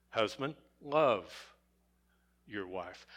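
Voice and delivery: love set apart before a pause, your wife low and very soft; single out love, then drop your wife right down; stress on love. Shown as a demonstration. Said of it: "the second word, love".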